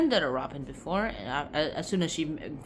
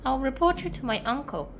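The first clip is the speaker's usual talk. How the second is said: mock indignation; 7 semitones higher than usual. Girl threatening to report the servants, huffy indignation. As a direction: play it affronted, not shouted.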